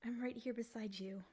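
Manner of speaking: whisper. Acted. Comforting after kiss.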